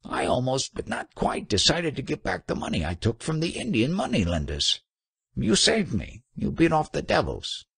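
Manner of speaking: high-pitched, tearful acted pleading; mock sobbing. A narrator's reading. Trader confessing to the monk who saved him, acted sobbing. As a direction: gabble gratefully in a high, wailing voice. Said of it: "sobbed the trader".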